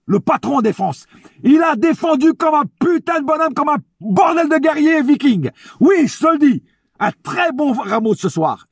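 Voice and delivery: hyped-up high praise; escalating comedy rant. Real, not acted. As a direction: cheer him on like a fan. Excited praise of Ramos.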